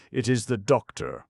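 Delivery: a high, loud, gloating cry; loud laughing cry. A narrator's reading. Madman gloating at the doctor's arrival, loud cry. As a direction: crow it out with a mocking laugh. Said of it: "he cried with a loud laugh".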